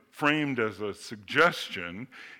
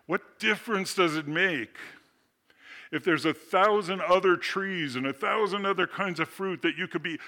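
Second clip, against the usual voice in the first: tempting serpent; 7 semitones higher, 3 dB louder than usual. Retold or imitated. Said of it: "to just say".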